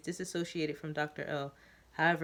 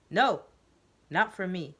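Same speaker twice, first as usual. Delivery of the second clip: yelling; 3 semitones higher, 7 dB louder, slower than usual. Acted. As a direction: shout him down, then settle. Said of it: "He yells".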